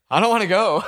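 high, loud mock whine; acted reluctant pleading; scared protest. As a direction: imitate a friend panicking on a ledge. Friend scared on the ledge.

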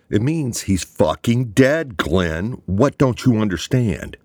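furious shout, loud and high. A narrator's reading. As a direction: blow up and shout at him. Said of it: "Draper uncharacteristically shouted".

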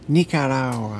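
"Nicaragua" with no hard G, ending in -awa; silent G. Shown as a demonstration. Friend trying "Nicaragua" after her, G silent. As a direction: drop the G in "Nicaragua". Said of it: "you can't pronounce the G".

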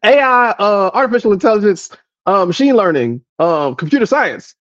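imitating a coworker listing buzzwords; string empty tech words together; lightly mocked jargon list; mock buzzword rambler. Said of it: "he's just saying shit".

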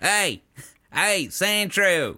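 mild drawn-out mock holler; country coach calling. Trainer calling to his Sandshrew, mild country coach holler. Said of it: "He was yelling at him".

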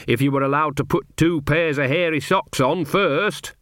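mildly cheerful heckler; light, cheeky character voice. Acted. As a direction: toss in a good-humoured quip. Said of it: "said a cheerful voice".

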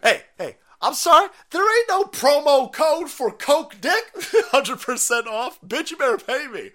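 loud, high outraged hooker; angry escort yell. Acted. Escort shouting at client who won't pay, high loud yell.

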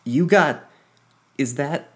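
high, loud shocked outburst; gasping alarm. Acted. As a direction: yelp it out, startled at the blood. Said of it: "Quinn gasped".

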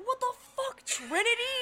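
high, loud mock yell at a coworker; shouting in disbelief, replayed; loud incredulous yell; retold yell.

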